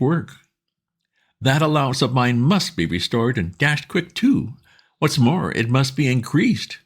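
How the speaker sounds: pleading pal, keen and urgent; eager Bingo. A narrator's reading. Bingo asking his old friend Bertie for help, eager and high.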